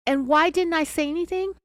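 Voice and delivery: high-pitched imitation of a tearful cry; mock crying. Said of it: "and she cried".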